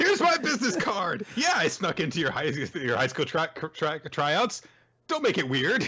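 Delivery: high-pitched, playful put-on voice; comically pushy, high voice; energetic character voice. Joins in acting the energetic character.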